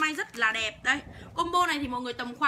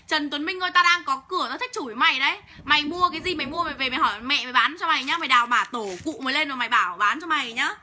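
real angry tirade, bursts of louder words; angry cursing; 3 dB louder than usual. Real, not acted. Seller cursing out a heckler in her livestream, angry. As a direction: tell the troll off angrily, leaning hard on the insults. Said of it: "Hôm nay điên máu với chửi đấy".

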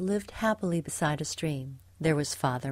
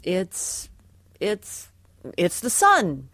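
hesitant, halting start before the answer lands louder; unsure; 5 dB louder, slower than usual. A narrator's reading. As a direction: grope for the answer, then blurt it out. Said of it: "looked a little less sure".

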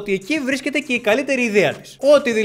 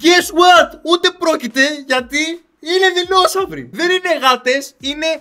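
worked-up rant; 3 semitones higher, 4 dB louder than usual. Acted. Ranting at the film.

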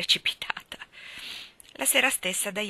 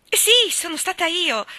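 high and loud, slow gleeful admission; beaming, bouncing on the bed; joyful; 9 semitones higher, 8 dB louder than usual. A narrator's reading. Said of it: "disse Diana ... gioiosamente sul letto". (gioiosa e squillante)

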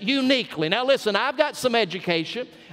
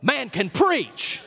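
slow, drawn-out South Georgia "Woo, man can preach"; an admiring South Georgia churchgoer, unhurried; South Georgia exclamation; slower than usual. Retold or imitated. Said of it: "We'd say".

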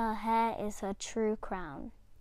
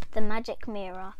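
announced title; 7 dB louder than usual. Shown as a demonstration. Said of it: "our very first book on Destiny's Reading Corner is".

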